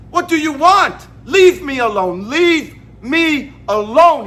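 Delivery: mild mock yell, drawn out at the end; retold scream. Uncomfortable customer confronting Joe, imitated scream. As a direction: imitate a fed-up yell without going full volume. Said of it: "he screams it loud".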